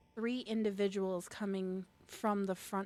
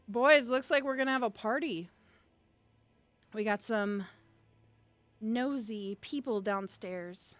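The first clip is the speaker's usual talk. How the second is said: calling out to his cronies, louder at first; a hint of a tough, ending on a slowed 'nosy people'; lightly voiced man upstairs; 5 dB louder than usual. Man atop the stairs alerting the boys, lightly acted call. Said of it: "you hear his voice go".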